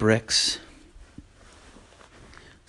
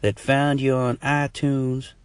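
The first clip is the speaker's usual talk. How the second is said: slow, higher caller voice building to a jeer; heckling listener voice; 5 semitones higher, slower than usual. Pretend. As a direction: play a rude caller. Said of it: "You could be like".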